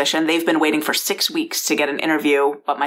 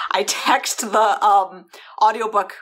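whispered laugh; 4 semitones higher, slower than usual. Real, not acted. Whispered aside while telling story.

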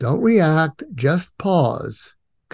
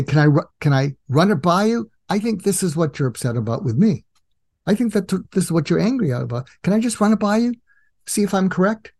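gentle, tentative checking in; calm, non-judgmental; 5 semitones higher, faster than usual. Shown as a demonstration. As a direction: check gently, without any blame. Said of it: "you're so centered and calm and non-judgmental".

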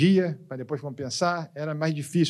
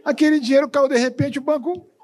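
imitating crying pastor; 8 semitones higher than usual. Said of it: "ela chorando".

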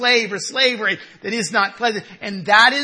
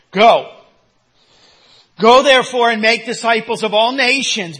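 booming scripture command; 6 dB louder than usual. Acted. Preacher reads Jesus' command aloud.

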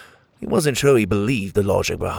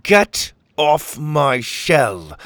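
slow, slightly higher growl; growled warning; 4 semitones higher, 3 dB louder, much slower than usual. Acted. Pockets to the pirate captain, slow growled warning. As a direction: order them off, word by word. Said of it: "he growled".

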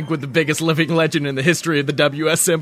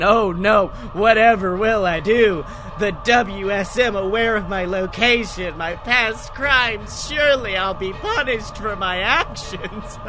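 sarcastic; 3 semitones higher than usual. Acted. Mocking fake panic to villain.

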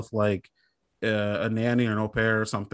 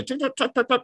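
rapid little high tick-tick-ticks; keyboard clacking imitation; 11 semitones higher, faster than usual. Imitating typing at the office, light rapid ticking. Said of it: "I'll be, like, clickety clacking".

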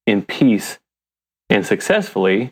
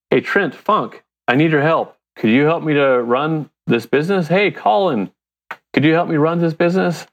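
calling for help; 5 semitones higher than usual. Retold or imitated. Re-enacts calling on people for help.

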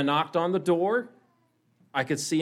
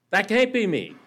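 high, raised exclamation of disbelief; amazed disbelief; 8 semitones higher, 4 dB louder than usual. A narrator's reading. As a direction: marvel at your own reflection, pitched high. Teacup amazed at its reflection.

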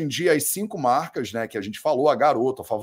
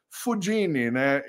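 Italian accent; 3 dB quieter, slower than usual. Shown as a demonstration. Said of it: "meu sotaque italiano".

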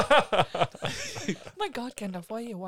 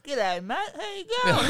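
fake Aussie accent; 9 semitones higher, 4 dB louder than usual. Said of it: "He's not even Australian".

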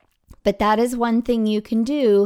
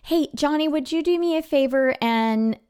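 pitched-up teacher asking a favor; lightly acted, higher-voiced ask; friendly request; 5 semitones higher than usual. Teacher asking a student to run an errand, friendly request. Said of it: "use that student as my errand person".

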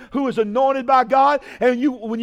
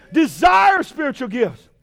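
shouted repeat. Shown as a demonstration. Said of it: "repeating the quote".

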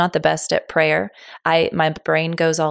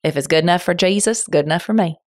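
country voice; faster than usual. Pretend. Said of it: "I'm gonna talk in my best country voice".

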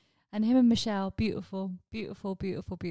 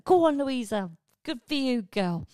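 high, loud cheer of encouragement; mock cheer; 6 semitones higher, 7 dB louder, slower than usual. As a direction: shout her on like a proud crowd. Village cheering the priestess on.

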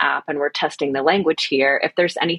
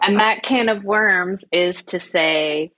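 laughing; 3 semitones higher, much slower than usual. Real, not acted. Laughing, slow.

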